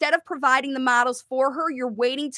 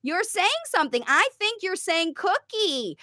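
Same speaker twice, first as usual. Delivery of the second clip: a light sing-song parent offering cookies; modeling parent voice; 2 semitones higher than usual. Shown as a demonstration. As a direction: talk the child through the cookie, slowly. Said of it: "You say".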